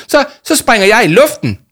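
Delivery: high, loud, explosive outburst; furious threat. A narrator's reading. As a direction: stumble into a raging ultimatum. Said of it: "hvæsede Jama og stampede". (højt, rasende udbrud)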